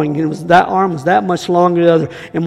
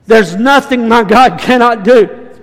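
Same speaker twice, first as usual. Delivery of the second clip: louder, slower proclamation; building proclamation; 3 semitones higher, 5 dB louder, slower than usual. Acted. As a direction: preach it rising in force. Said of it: "repeated, building".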